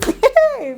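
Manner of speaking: high squealing laugh; burst of laughter. Real, not acted. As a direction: crack up. Laughing at her own quote.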